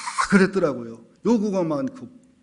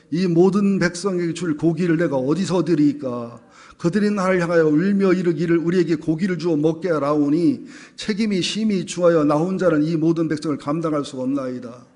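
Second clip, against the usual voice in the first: steady, projected verse reading; scripture reading; 4 dB louder than usual. Acted. Pastor and congregation reading Moses's complaint, scripture reading. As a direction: read the verse out for the congregation to follow.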